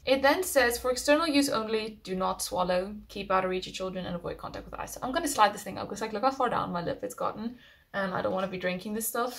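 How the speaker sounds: speaking through face mask; sheet mask on lip. Real, not acted. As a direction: mask edge touching mouth. Seen 0: The sheet mask reaches her upper lip; she points at it before lifting.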